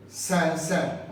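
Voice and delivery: सैन सैन dipped down then up, Chinese third tone. Shown as a demonstration. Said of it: "माने third टोंग".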